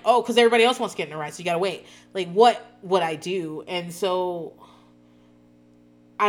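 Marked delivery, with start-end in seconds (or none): 0.0-1.9 parent explaining. Retold or imitated. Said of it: "And you're like".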